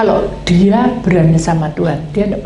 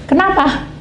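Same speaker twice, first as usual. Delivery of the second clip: high surprised why; 11 semitones higher, slower than usual. Retold or imitated. Presses the hesitant caller.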